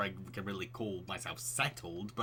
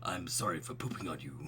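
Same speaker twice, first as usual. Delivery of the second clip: put-on softer, lower baby apology; 5 semitones lower, 5 dB quieter than usual. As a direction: say it as a cute baby. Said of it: "doing the baby voice".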